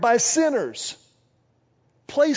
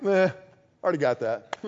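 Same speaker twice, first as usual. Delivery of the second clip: put-on bored kid; 6 semitones lower than usual. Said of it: "it's kinda like".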